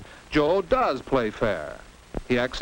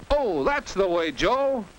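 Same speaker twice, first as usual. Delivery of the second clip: higher-pitched cheer for a player; 6 semitones higher than usual. Acted. Narrator to Joe during the game, cheering him on. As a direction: call out encouragement, pitched up.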